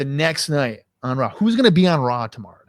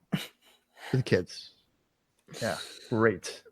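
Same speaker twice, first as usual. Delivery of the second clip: slow, low, much softer sarcastic repeat; sarcastic mutter; 5 semitones lower, 12 dB quieter, much slower than usual. Shown as a demonstration. Mocking the show's slogan to his friend, slow sarcastic mutter. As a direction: drag it out dripping with sarcasm. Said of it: "For the kids in Canada".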